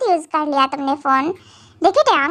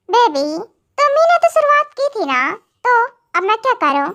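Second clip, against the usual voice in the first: high, teasing and a bit fast; smug teasing; mock innocence; 5 semitones higher than usual. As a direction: play innocent and toss the blame back at her. Husband teasing during a quarrel.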